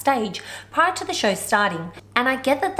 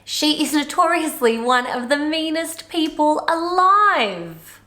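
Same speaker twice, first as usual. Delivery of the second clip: dramatic quote; 5 semitones higher, 4 dB louder, slower than usual. Retold or imitated. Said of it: "he also says".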